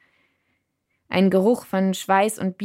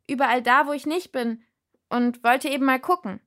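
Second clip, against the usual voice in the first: higher, louder talk throughout; shouted into ear; 6 semitones higher, 3 dB louder than usual. A narrator's reading. Narrator explaining herself into the giant's ear, shouting. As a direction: shout the story into his ear. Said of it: "rief hinein".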